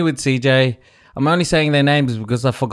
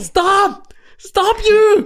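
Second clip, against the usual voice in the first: put-on urgent, shrill, very high scream; 3 dB louder than usual. Speaker retells screaming at people who are not stopping; retelling a scream. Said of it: "I just start screaming".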